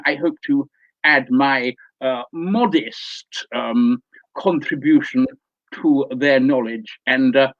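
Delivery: lightly voiced pompous lecturer; pompous learned Doctor. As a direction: address them as a self-important scholar.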